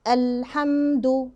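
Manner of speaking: slow "الحمد" with lam and meem held; medium-length hold. Shown as a demonstration. Teacher shows the required timing, slow and held. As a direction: linger on the ل and م of "الحمد". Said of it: "الزمن المطلوب مني إن أنا أعمله".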